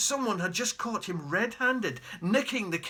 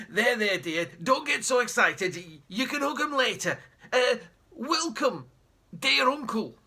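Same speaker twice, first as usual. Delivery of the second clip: a hint of a higher, fawning dad; smooth things over too eagerly; nervous dad; 5 semitones higher, 3 dB louder than usual. Dad calming Mum and greeting the uncle, fawning and nervous.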